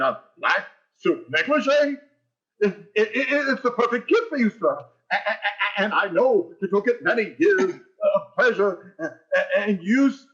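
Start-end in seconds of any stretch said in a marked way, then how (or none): 2.6-10.3 stammering, tripping over every word; flustered, can't get the words out; nervous stammer. Acted. Conklin flustered over wrong gift.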